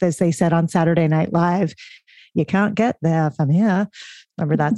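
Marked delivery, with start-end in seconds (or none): 2.3-3.9 put-on a light Boston accent, dropped r in there and here. Host quoting the Saturday Night Live skit: a mild Boston accent. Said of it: "we're going to a Boston accent".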